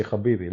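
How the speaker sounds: "Habibi" again with the throaty kh; guttural Habibi. Retold or imitated. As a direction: scrape the start of "Habibi" in the throat. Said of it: "He say".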